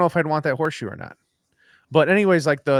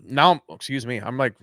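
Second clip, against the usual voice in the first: talking through a burp; a burp caught mid-sentence. Real, not acted. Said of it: "I'm burping here".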